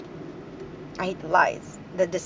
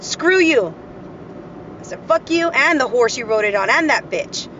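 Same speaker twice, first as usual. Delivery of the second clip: angry retort; 3 dB louder than usual. Retold or imitated. Retold insults to her ex.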